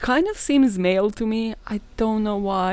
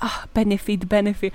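mock Italian. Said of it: "being completely fucking Italian here".

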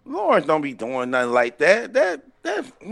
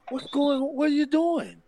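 mildly imitating a calm, puzzled guy, softer; lightly voiced bewildered wrestler, softer and unbothered; 8 semitones higher, 5 dB quieter than usual. Friend retelling the fight, imitating Norv's calm bewildered voice. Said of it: "talking in a calm voice".

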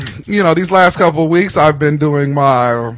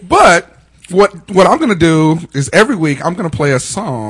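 chewing gum. Real, not acted. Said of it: "You gonna stop chewing that gum so loud?".

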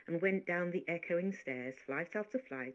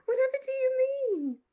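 laughing disbelief; 9 dB louder than usual. Acted. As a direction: laugh at her odd claim. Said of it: "I laughed at her".

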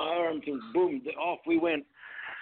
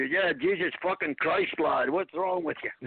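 put-on Scottish accent; slower than usual. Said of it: "That's how they say it in Scotland".

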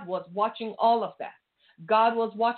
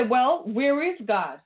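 mock complaining; 3 semitones higher than usual. Preacher mocking complacent churchgoers, whiny complaint. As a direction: mimic a fretful believer whining to God. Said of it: "Are you gonna complain and say".

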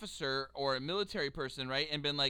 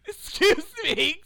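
loud mock call; 9 semitones higher, 10 dB louder, much slower than usual. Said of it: "He's like".

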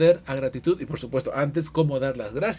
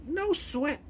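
high-pitched female voice; woman's voice; 12 semitones higher, 5 dB quieter than usual. Shown as a demonstration. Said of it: "con mi voz de mujer".

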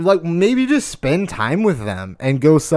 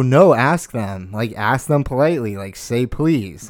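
a hint of a coaching mom. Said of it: "sit there and go".

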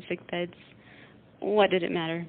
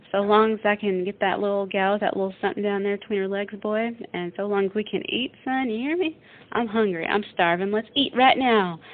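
fast, louder eager rant, hungry and pushy; eager Dean; 2 semitones higher, 5 dB louder than usual. Retold or imitated. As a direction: rattle it off like a hungry young drifter. Dean's excited quoted speech.

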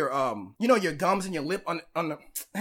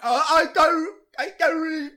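panicked gasping; 9 semitones higher, 8 dB louder, slower than usual. Retold or imitated.

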